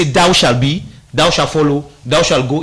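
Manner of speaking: "thou shall" stressed firmly on thou; biblical command. Shown as a demonstration. Analyst demonstrating a biblical order, stressing thou. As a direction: lay weight on "thou" like scripture. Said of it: "as a communicator, biblical standpoint of view".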